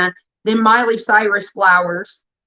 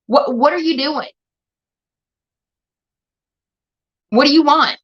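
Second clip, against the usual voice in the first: raised, higher angry outburst at a viewer; angry rant; 3 semitones higher than usual. Real, not acted. Streamer lashing out at a chatter, angry. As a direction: snap at her, fed up and furious. Streamer berating a chat user.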